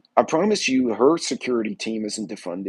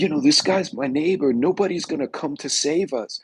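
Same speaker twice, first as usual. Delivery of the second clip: raised-pitch rallying appeal; retold impassioned plea; imitated earnest plea; 4 semitones higher than usual. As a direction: make the protester's case with lifted voice. Acting out a protester's plea.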